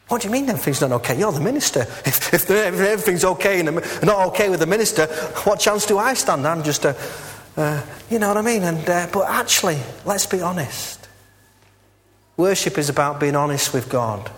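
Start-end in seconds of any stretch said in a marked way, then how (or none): 0.1-8.6 shocked congregant. Acted.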